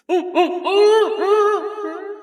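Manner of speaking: high sung hoots; bigfoot hooting. Acted. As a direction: hoot up high like a forest ape. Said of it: "the Bigfoot's sitting in the back and goes".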